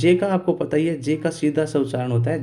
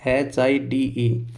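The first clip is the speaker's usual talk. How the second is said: spelling out; 2 semitones lower, much slower than usual. Shown as a demonstration. Teacher spells out the word.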